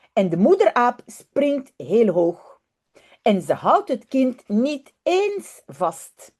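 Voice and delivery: lively storybook reading in Dutch; story narration. Acted. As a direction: read it like a bedtime story for children. Reads Dutch children's story aloud.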